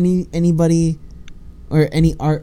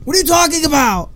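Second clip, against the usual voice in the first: mock disbelief; 13 semitones higher than usual. Acting incredulous classmate.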